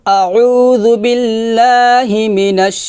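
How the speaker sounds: slow, melodic Quranic chant; tajweed-style slow recitation. Shown as a demonstration. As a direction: recite slowly, drawing out each vowel.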